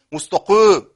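«مستقيم» loud, with an exaggerated heavy qaf; over-heavy qaf. Shown as a demonstration. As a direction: overdo the ق in «مستقيم» till the vowel darkens. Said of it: "ولا أقول مستقيم". («مستقيم» بتفخيم زائد للقاف)

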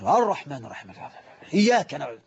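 recitation dipping low and rising in turns; mimicked uneven volume. Sheikh mimics a worshipper who recites aloud in prayer, uneven volume. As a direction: swing the voice down and up while reciting. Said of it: "يوطي صوته ويرفع صوته شوية".

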